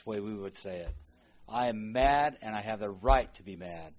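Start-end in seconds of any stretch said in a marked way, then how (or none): 1.5-3.9 mild mock anger. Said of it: "voices Jonah's anger in English".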